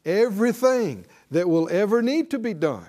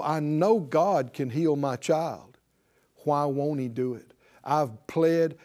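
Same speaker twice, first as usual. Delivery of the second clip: anguished parent; 3 semitones lower than usual. Retold or imitated. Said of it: "with angst in their eyes and pain".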